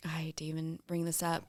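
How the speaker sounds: hushed, reluctant whisper; whispered aside about a painful topic. Real, not acted. Hesitant aside about her son.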